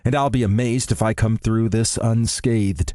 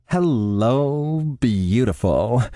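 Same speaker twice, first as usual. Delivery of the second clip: chirpy; 3 semitones higher, much slower than usual. A narrator's reading. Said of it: "she chirps into the phone".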